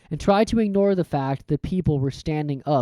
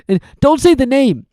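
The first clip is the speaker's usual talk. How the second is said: louder, higher tearful plea; Hagrid's voice; 10 semitones higher, 9 dB louder than usual. Acted.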